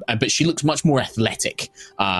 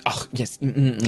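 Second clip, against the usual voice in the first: matter of fact. Acted. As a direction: murmur it while patting someone's back. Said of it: "it's very kind of matter of fact".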